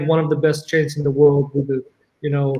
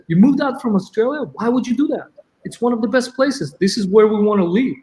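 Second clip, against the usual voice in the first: higher-pitched incredulous questioning; retold disbelief; 6 semitones higher, faster than usual. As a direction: imitate someone baffled by the news. Retold disbelief at leaving Australia.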